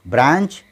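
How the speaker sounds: ब्रांच said "braanch", vowel long and open. Shown as a demonstration. Teacher contrasting the a sound for learners, long vowel. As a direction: stretch the aa in ब्रांच. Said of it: "ये ए की आवाज़".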